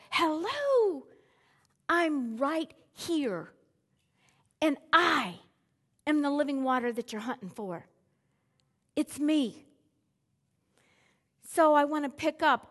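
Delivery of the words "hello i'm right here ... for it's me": Jesus, gently. Retold or imitated. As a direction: say it calmly, like someone patiently pointing to himself. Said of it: "Jesus was going to those people".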